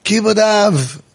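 a hint of sing-song verse; lightly chanted scripture; quoting scripture. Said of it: "quoting the Bible".

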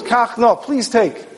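gently beg, as God asking Avram a favour; pleading. Acted. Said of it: "in a pleading tone".

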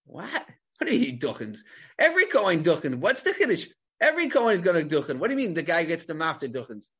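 puzzled, with jumping pitch; mock incredulity. Teacher voicing bafflement at the Mishnah, mock incredulity. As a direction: challenge it like a baffled student.

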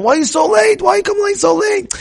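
high, shrill-pitched scolding yell; imitating an angry father scolding; angry parent. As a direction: nag the late kid like an irritated parent. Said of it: "You be makpid".

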